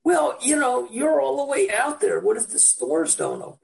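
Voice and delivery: gently mocked motherly worry; worried mother. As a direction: lightly voice an anxious mom. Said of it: "She said".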